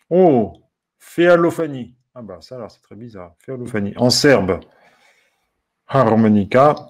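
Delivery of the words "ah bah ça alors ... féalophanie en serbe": usual speaking voice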